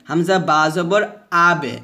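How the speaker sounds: আবে with a light, thin bounced release; thin qalqalah. Shown as a demonstration. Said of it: "কলকলা পাতলা হবে এভাবে".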